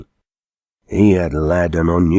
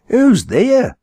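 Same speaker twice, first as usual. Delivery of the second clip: high, loud call to the hearse; calling haymaker; 4 dB louder than usual. A narrator's reading. Haymaker calling into the hearse, high loud call. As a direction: shout the question at the dark coach. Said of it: "said the haymaker".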